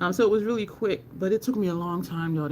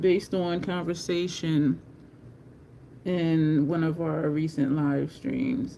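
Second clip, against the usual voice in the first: slow, drawn-out talk. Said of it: "I know I'm talking slow".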